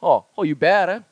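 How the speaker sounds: Hawaiian Pidgin come-on with a questioning lift; Pidgin pickup line. Shown as a demonstration. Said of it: "here's one that I wanted to bring up".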